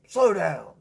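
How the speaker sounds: imitating an annoyed dad's yell; mock calling out. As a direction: call after a speeding driver, half-shouted. Dad calls out at speeding car.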